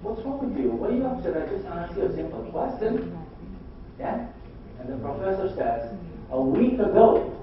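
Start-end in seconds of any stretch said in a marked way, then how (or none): 0.0-3.2 mock puzzled boy, pitched up; lightly voiced baffled pupil, higher; puzzled Jamal. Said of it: "Jamal goes". 6.3-7.3 slow, louder, mock-upset retort; upset professor. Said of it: "the professor gets really upset".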